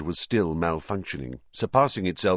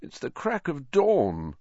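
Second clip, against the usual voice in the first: slow, croaking sleepy protest; croaky; 6 semitones higher, slower than usual. A narrator's reading. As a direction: drag it out, still croaky. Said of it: "Harry croaked".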